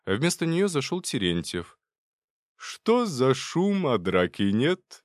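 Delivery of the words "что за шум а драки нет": slow, much higher playful greeting; cheerful. Acted. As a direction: breeze in jokingly. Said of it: "весело поинтересовался он".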